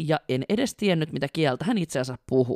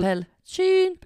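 mock Finnish English; 14 semitones higher, slower than usual.

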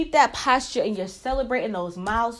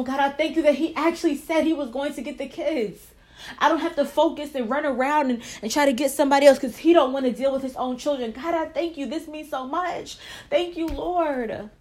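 grateful prayer; 3 semitones higher than usual. Acted. Wife thanking God after her husband's phone call, grateful and hushed.

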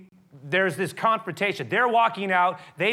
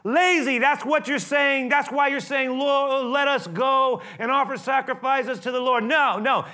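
furious, high, loud shout; angry king shouting down the foremen, slow and high; Pharaoh shouting; 10 semitones higher, 7 dB louder, slower than usual. Acted. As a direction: bellow at the lazy slaves. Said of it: "But Pharaoh shouted".

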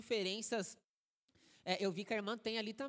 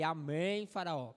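pastor shouting; 4 semitones lower, 4 dB louder, slower than usual. Retold or imitated. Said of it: "pastor gritando pra ele".

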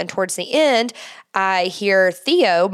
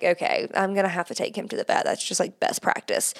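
softer, trailing into a breathy mumble; resigned mutter; 7 dB quieter than usual. Retold or imitated. Deciding to take the dog to the vet, resigned mutter. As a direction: quietly give in to the inevitable. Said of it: "and I was like".

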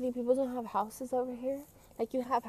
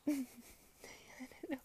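laughing through the words; can barely get it out for laughing; real giggles breaking up the line; cracking up; 3 semitones higher, 11 dB quieter, much faster than usual. Real, not acted. Cracking up at online joke.

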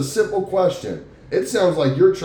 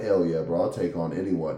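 tough guy bravado; 10 semitones lower, 6 dB quieter than usual. Retold or imitated. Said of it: "the big goofy guy, that's like".

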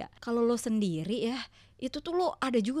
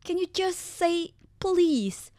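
slow put-on husband voice; mocking husband; 6 semitones higher, much slower than usual. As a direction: drawl it like the husband. Husband's quoted request, mocked.

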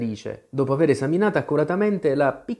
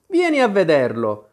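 higher, louder eager call; 5 semitones higher, 5 dB louder than usual. A narrator's reading. Brothers urge Alice to come and see, calling out. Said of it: "gridarono i fratelli".

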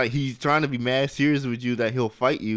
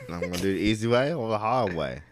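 lightly voiced menacing suitor, unhurried; booty warrior; 3 semitones lower, 4 dB quieter than usual. Prisoner offers easy way or hard way, understated menace. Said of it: "I tell him like this".

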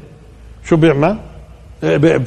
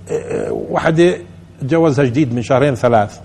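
ordinary delivery

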